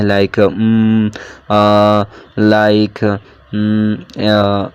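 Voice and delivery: drawn-out like, um and uh as examples; demo vocal fillers. Shown as a demonstration. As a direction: drag out the fillers like a hesitant speaker. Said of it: "ایسے sounds use کرتے ہیں".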